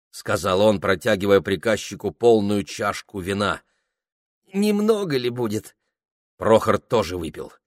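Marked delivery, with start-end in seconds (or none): 4.5-5.8 lightly voiced tipsy clerk. Ilya drunk.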